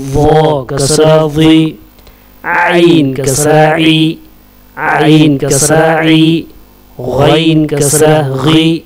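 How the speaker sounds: measured, level-pitched chant of letter names; spelling drill recitation. Shown as a demonstration. Teacher drilling Arabic letters with kasra for learners, measured recitation. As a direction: recite letter, vowel sign, syllable in even beats.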